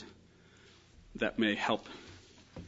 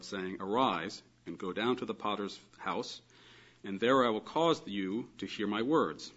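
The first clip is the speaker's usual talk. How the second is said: measured, solemn reading aloud; scripture reading. Acted. Lecturer reading Jeremiah eighteen aloud, measured reading. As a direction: read the verses out evenly, phrase by phrase.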